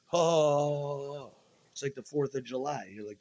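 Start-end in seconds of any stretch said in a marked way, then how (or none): 0.1-1.3 loud, delighted gasp of wonder; thrilled by the flashing lights; awed oh. Retold or imitated. Watching police cars pass, a loud thrilled oh.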